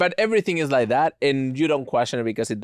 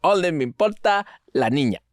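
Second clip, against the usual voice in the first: kid-like mock Asian accent in Spanish; childish Asian accent in Spanish; 2 semitones higher than usual. Shown as a demonstration. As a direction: swap the L and R like a child would. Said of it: "a kindergartner doing an Asian accent".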